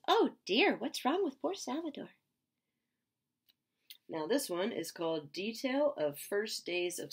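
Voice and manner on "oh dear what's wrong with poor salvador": high, fussy teacher voice; high, fluttery worried teacher; fretting teacher. Retold or imitated. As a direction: coo over him like a worried teacher. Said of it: "the teacher says".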